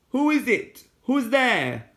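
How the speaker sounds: put-on a hidden child calling out nervously; high child's voice, fearful call; frightened child. A narrator's reading.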